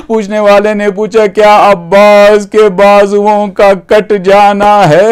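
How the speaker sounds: plaintive, chant-like storytelling with stretched phrases; majlis lamentation. Acted. Preacher retelling questions put to the Imam, plaintive lament. Preacher narrates mourning dialogue.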